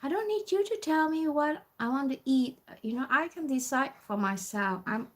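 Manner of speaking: high at first, easing down, mock indignant; rude. Older customer telling student she can decide, rudely. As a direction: imitate a rude, stubborn customer. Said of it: "the way she sounds is, like, really rude".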